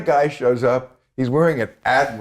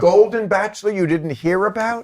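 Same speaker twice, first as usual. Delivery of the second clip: disbelieving; 7 semitones higher than usual. Real, not acted. Disbelief at friend.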